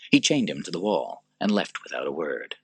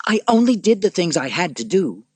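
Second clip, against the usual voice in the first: high, loud self-justifying emperor; petulant Commodus; 12 semitones higher, 7 dB louder than usual. Acted. Commodus justifying himself to his sister, high and loud. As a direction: defend yourself, voice pitched up.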